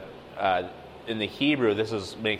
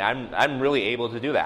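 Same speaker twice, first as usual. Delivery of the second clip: extra weight on "really"; emphatic; 2 semitones higher than usual. Shown as a demonstration. Geographer assuring his pastor he can make a map, emphatic. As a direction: lean on "really" to show strong ability. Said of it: "putting an extra emphasis on it".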